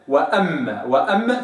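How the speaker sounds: وأما with two m sounds; doubled m. Shown as a demonstration. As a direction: show both m in وأما. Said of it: "شوف، وأما كده اهو".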